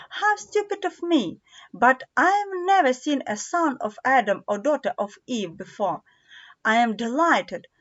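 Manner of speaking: a faun catching himself, flustered; a hint of a fussing faun. Voices the faun.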